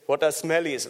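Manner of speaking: put-on a light, half-hearted South African accent. Rugby player puzzled by the word smellies, in a faint South African accent. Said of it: "That's my South African accent".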